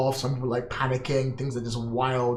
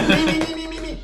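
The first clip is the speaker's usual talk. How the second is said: eager; 14 semitones higher than usual. Real, not acted. Eager volunteering, laughing.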